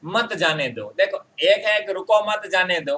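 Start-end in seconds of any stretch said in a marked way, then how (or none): 0.1-0.8 "मत जाने दो" as its own phrase; separate, measured "मत जाने दो"; after the comma. Shown as a demonstration. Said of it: "comma लगाएं". 1.9-3.0 "रुको मत जाने दो" run together; one unbroken phrase, "रुको मत जाने दो"; no comma pause. Shown as a demonstration. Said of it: "जैसे ही मैंने यहाँ पर एक विराम चिन्ह लगाया".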